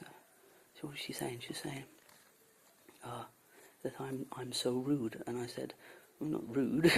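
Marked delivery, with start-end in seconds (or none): 6.2-6.9 indignant denial. Retold or imitated. Denying being rude.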